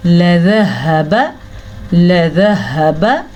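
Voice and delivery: लज़हब with a short ला; short lam. Shown as a demonstration. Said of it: "लाम को लंबा करेंगे तो ... गलत".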